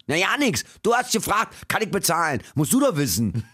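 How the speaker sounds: high, brusque Berliner retort; gruff Berliner. Retold or imitated. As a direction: dismiss the customer curtly. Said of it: "Der Berliner ist ja sehr schroff".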